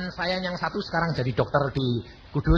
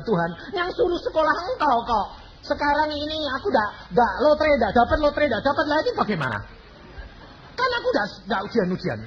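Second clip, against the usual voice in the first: crying out; 5 semitones higher than usual. Retold or imitated. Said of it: "saya teriak sama Tuhan".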